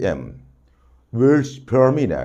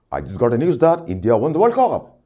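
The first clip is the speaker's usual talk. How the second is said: excited news; 3 semitones higher, 4 dB louder, faster than usual. Shown as a demonstration. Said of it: "It's su-, surprising".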